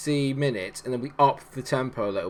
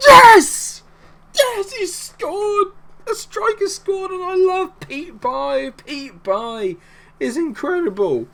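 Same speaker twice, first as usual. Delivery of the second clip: high, loud ecstatic yelling; goal celebration; 9 dB louder, much slower than usual. Real, not acted. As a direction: scream with delight at the goal.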